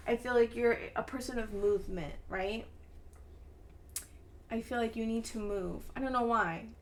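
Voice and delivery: ordinary talk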